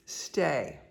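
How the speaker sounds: ordinary talk, nothing marked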